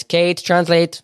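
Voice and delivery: high, drawn-out call to Kate; imitated call for help. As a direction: imitate a mom calling out slowly for a translator. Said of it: "she's gonna be like".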